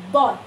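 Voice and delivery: বয় in a single beat, no pause; one unbroken syllable. Shown as a demonstration. Teacher demonstrating a monosyllable to students, বয় in one unbroken beat. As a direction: say বয় all at once. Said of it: "কোনো pause নিতে হয় না".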